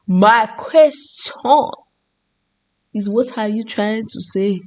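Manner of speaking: put-on muddled French-Nigerian accent, deliberately drawn out at first; put-on mixed accent. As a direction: pose the question in a wandering French-Nigerian accent. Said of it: "I started to speak in this accent".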